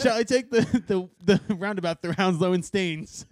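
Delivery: a hint of a posh cab driver, slow; drawn-out mock driver offering a detour; lightly voiced British cabbie. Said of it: "Middle Earth taking me to airport".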